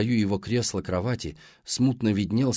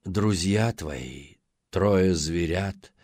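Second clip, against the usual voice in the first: gurgling sea hag; 4 semitones lower, slower than usual. Acted. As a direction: purr it low like a sea hag. Monster mother voiced.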